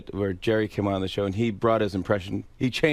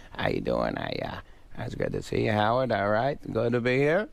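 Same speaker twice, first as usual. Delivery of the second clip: lightly voiced mumbling impression; Adam Sandler mumbling. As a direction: mumble through an awkward greeting. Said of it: "he just kinda mumbles".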